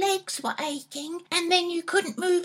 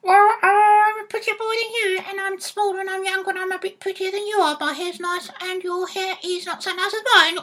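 parrot talk; faster than usual. Pretend. Child boasting to Dad about looks, parrot voice. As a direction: pretend parrot one-upmanship. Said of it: "talk to me like a parrot".

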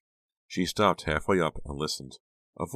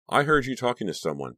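insisting; 8 semitones higher, 3 dB louder than usual. A narrator's reading. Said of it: "Becca insisted".

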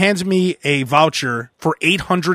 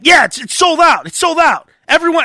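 higher, louder mock clerk snapping; mock rude lady; 9 semitones higher, 4 dB louder than usual. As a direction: imitate the dismissive agent. Mocking rude counter lady.

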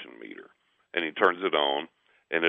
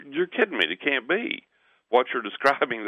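higher-pitched incredulity; retold disbelief; 6 semitones higher than usual. Second gas man doubts the homeowner's story, retold disbelief. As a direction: protest it as impossible, pitched up.

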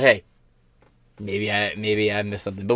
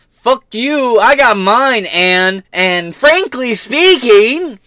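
mocking Soros voice; 5 semitones higher, 4 dB louder, much slower than usual. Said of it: "as he recalls with a big fucking smile".

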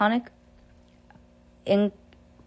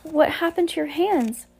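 Fiona's voice; 10 semitones higher than usual. Acted. Fiona greets the hook-handed man.

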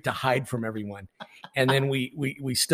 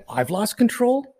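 retold calm comeback, rising on the question; mock-composed retort, held in check; calm, collected. Umpire answering the angry coach, calm and collected. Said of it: "In a very calm, collected voice".

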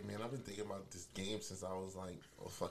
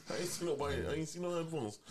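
raised, louder exasperated denial; higher, louder, brushing off the accusation; retold annoyed reply; 6 semitones higher, 5 dB louder than usual. Retelling texting the roommate, a higher louder exasperated denial.

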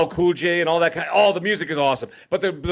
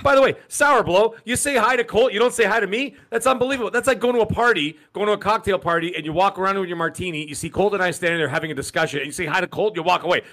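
higher-pitched, playfully offended complaint; mock indignation; 5 semitones higher than usual. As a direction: scold them for the snub, half in jest. Playfully scolding a chatter who snubbed him.

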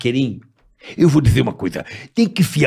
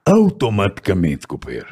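Lula impression; 5 semitones lower than usual.

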